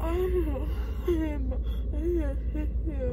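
weepy, slurred and loud; drugged and emotional, whining; groggy from anesthesia. Real, not acted. Groggy after surgery, emotional.

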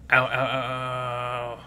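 long, drawn-out ow; acted pain groan. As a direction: stretch out the mock ouch. Hurt fox while leg is treated.

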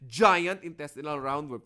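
light imitation of a student's pronunciation; mimicking her G. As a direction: echo Eliza's way of saying "giant". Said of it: "how she pronounces it".

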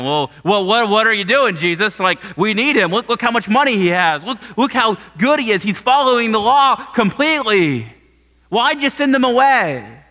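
incredulous protest. Retold or imitated. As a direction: question him like a baffled follower. Disciples protest Jesus' choice.

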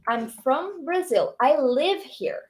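slow, careful English; slow model reading. Shown as a demonstration. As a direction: model slowly for repeating. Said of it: "pra você falar de onde".

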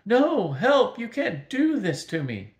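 melting wizard begging for help in terror; panicked plea. Acted. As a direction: scream for help as you melt.

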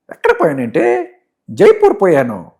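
high-pitched comic servant voice; hammed-up servant's reply; Kotigadu. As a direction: answer the master in a high, put-on voice. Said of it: "MS Narayana గారు".

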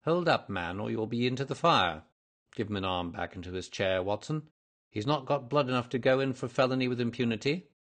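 detective lightly in command; hint of a detective taking charge; lightly voiced brisk detective.

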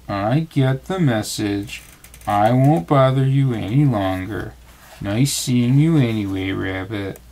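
slow, mopey donkey voice; slow, downcast Eeyore; gloomy Eeyore. Acted. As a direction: drag the words out like a glum donkey. Eeyore sadly takes his leave.

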